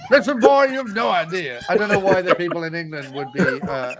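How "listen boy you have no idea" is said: put-on Southern American accent. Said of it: "a Southern American accent of evil".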